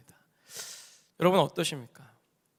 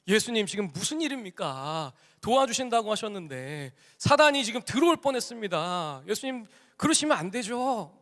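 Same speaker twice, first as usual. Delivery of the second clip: mildly angry complaint, acted out; indignant protest; 2 semitones higher than usual. Angry rich man confronting Jesus, indignant protest. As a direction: imitate taking someone to task, pitch climbing. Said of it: "화가 나서는 예수님한테 따지는 거예요".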